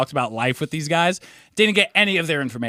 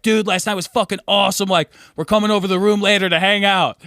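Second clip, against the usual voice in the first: put-on Australian accent; 6 semitones higher, 3 dB louder than usual. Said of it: "your Australian accent got really good".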